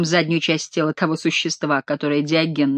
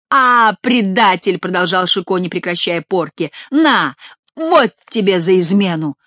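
gloating whipping cries. Acted. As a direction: relish each blow you land. Chicot whipping.

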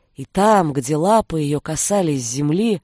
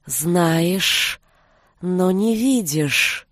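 slow hypnotic serpent hiss; much slower than usual. Acted. The forest's snake voice.

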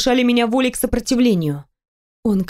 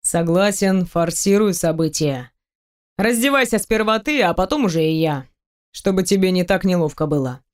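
lightly voiced man; 2 semitones lower than usual. Teasing the heroine about undressing, lightly lowered male voice. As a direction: tease her, playful and sure.

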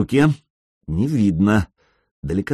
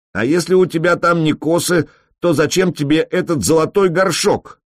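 1 yelled taunt; 7 semitones higher than usual. A narrator's reading. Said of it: "заорал дерзкий".

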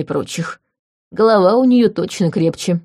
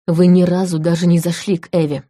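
through gritted teeth. Acted. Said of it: "сквозь зубы проговорил канцлер".

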